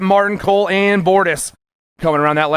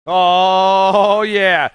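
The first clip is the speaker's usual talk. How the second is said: excited shout. Real, not acted. Announcer reacts to close finish.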